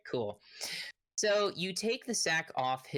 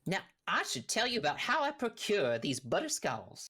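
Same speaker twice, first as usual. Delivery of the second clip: higher-pitched folksy storyteller; rambling half-orc rancher; 5 semitones higher than usual. Acted. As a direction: start a hammed-up yarn. GM plays Big Al rambling.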